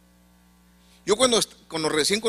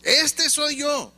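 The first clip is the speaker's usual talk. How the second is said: high, slow mock cry of despair; retold anguished cry; 10 semitones higher, much slower than usual. Preacher reliving reading Romans, crying out high and slow. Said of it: "yo estaba gritando".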